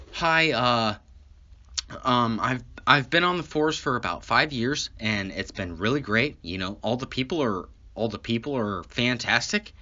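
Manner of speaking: lightly voiced mild, squeaky-clean officer; a hint of a polite, hesitant straight-arrow cop; whitest cop. Cop introducing himself as he drives up, lightly imitated white-sounding politeness. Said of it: "he is the whitest cop on the force".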